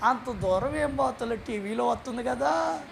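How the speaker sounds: soft, slow tempting voice; quiet, slow and sly, as Satan coaxing the churchgoer to skip the cinema. Retold or imitated. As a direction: lure them gently, like a sly tempter. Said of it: "సాతాను గాడు అంటాడు".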